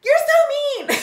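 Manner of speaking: put-on high, loud bratty teen wail with a laugh; hammed-up wounded teen cry; mock teen whine. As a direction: play the hurt teenager, way up high. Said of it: "your teenager could be like".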